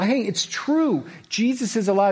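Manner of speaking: high, loud excited insisting; eager disciples. Retold or imitated. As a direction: plead that it's really true.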